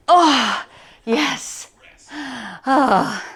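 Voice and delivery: gasping, straining through last rep; lifting weights. Real, not acted. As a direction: fight through the final rep. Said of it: "my shoulders are on fire".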